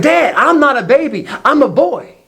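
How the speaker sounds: put-on high little-boy protest; indignant toddler. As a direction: imitate an offended two-year-old. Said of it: "He flips out".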